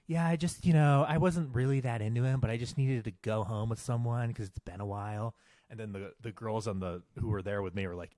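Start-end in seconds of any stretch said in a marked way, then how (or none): 0.1-5.4 imitating female friend. Friend confessing to the girls over FaceTime, lightly mocked. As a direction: mimic her casual excuse, pitched up then easing down. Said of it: "the way they're talking, it's like".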